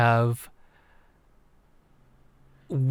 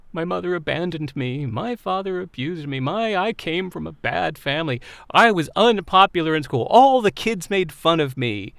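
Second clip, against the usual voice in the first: mock sob story; 4 semitones higher than usual. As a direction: play up the self-pity as the list grows. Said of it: "tell our sob story".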